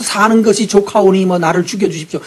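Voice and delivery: whiny Elijah. Retold or imitated. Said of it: "이런 소리 하면 안 되죠?".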